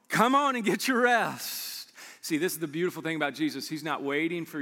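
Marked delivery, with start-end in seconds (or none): 0.1-1.9 rising invitation. Retold or imitated. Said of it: "He's saying".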